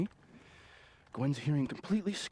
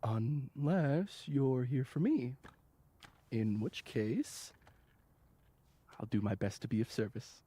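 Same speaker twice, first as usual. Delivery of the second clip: slow, drawn-out flirtation; slow, teasing offer of service; flirtatious come-on; slower than usual. Acted. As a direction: draw it out suggestively, taking your time. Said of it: "Do you talk like this to everyone".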